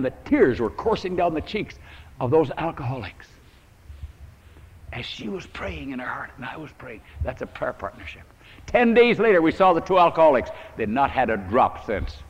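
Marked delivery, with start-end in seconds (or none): 4.9-8.2 whispered aside. Real, not acted. Hushed recollection of praying.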